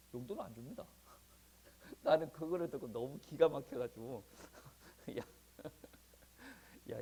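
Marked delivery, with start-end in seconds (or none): 5.2-7.0 breathy aside of disbelief; disbelieving whisper. Retold or imitated. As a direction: whisper it in amazement. 놀라서 속삭이듯. (어이없어 속삭이듯)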